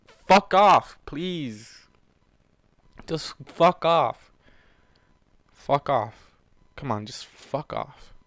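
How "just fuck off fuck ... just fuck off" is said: ordinary delivery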